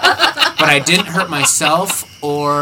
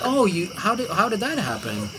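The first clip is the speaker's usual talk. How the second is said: calm Keith; 4 semitones higher, 6 dB quieter than usual. Retold or imitated. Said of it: "Very calmly, as Keith always does".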